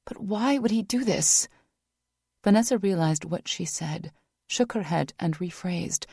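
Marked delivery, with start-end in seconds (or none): 0.1-1.5 upset female voice. Acted. Vanessa upset.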